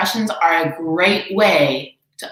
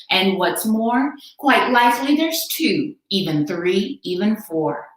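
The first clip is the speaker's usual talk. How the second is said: Horton sincere; 3 semitones higher than usual. Acted. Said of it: "said Horton".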